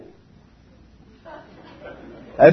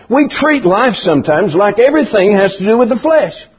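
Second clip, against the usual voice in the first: ordinary talk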